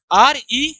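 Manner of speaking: आर ई letter by letter; spelling aloud. Shown as a demonstration. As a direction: spell out आर ई, each letter separate. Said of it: "इसकी spelling भी याद रखना".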